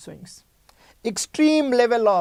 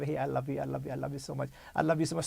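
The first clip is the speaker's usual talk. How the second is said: soft, much quieter, lower lovey-dovey coo; sweet loving girlfriend; 6 semitones lower, 10 dB quieter, much faster than usual. Pretend. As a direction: coo it softly like a clingy girlfriend. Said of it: "she will be very, very much love".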